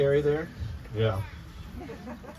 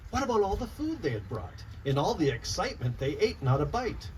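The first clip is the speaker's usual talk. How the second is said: lively rhyming storybook read-aloud; reading to children. Acted. Author reading her picture book to children, lively read-aloud. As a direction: bounce the rhymes for a room of kids.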